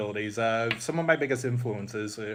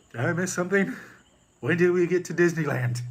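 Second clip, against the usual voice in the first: high, louder put-on confused voice; baffled villain looking around; Dark Helmet confused; 7 semitones higher, 6 dB louder than usual. Villain wakes up baffled, high put-on voice.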